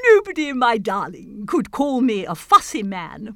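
loud, emphatic declamation; happy king. Acted. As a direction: proclaim it grandly as the poem's finale. King's triumphant last speech.

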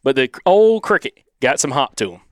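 put-on Southern accent; Southern twang. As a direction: read it straight through in Alabama twang. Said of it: "trying to do the accent".

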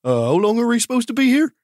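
asking with a full mouth; words through a mouthful of grapes. Acted. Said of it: "look at the rest of my team and say".

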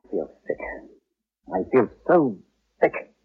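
low, weak and sickened. Acted. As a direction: sink into queasy despair. Sickened after the patient's death.

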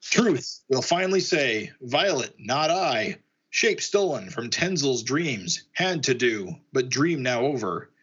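slow, stilted broken-English delivery; halting confession. Acted. Alien double confesses in broken speech.

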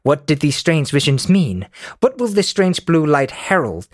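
lightly put-on British reading voice; a hint of fake British narrator; soft-spoken British. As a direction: read the recap in a mild mock-British voice. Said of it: "that's my soft-spoken British voice".

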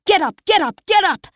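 high urgent repeated cries; panicked inner scream. Acted. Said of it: "every ounce of me screaming".

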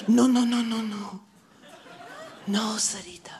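put-on soft, drawn-out accented puppet voice. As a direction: softly reassure as an accented puppet. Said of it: "we should do that accent".

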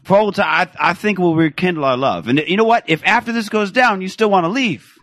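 a hint of a woman pleading; woman impression. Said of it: "your impression of Teddy Tutson".

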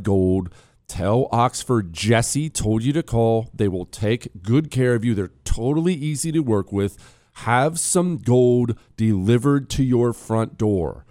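live radio ad read. Acted. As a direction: sell it like a host read. Host reads a gold ad.

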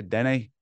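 "Denny" as a Scottish don't, light Scots vowel. Shown as a demonstration. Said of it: "they say".

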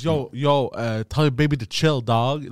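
low-voiced imitation of a skater dude; mock skater talk, dropped low. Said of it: "he's talking like that".

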